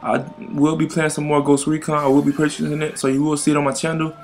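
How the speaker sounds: talking through a mouthful of chocolate. Real, not acted. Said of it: "I got chocolate in my mouth".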